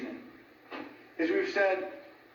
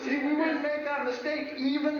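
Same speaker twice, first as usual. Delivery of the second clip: talking through real laughter, a little higher; laughing; 7 semitones higher, slower than usual. Real, not acted. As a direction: laugh as you admit the common slip. Laughing at sofa cushion joke.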